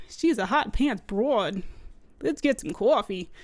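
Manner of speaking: slow, mock macho New York accent. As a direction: drawl it like a gum-chewing New York cop. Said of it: "that's my New York accent".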